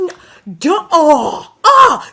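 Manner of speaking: mock innocent. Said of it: "he goes".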